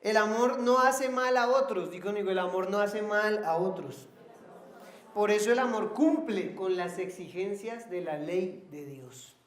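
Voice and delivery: emphatic verse proclamation; preaching scripture. Real, not acted. Preacher having the church repeat a verse on love, emphatic proclamation. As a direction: declare it firmly for the congregation to repeat.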